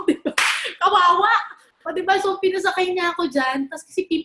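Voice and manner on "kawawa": exclaimed pity. Real, not acted.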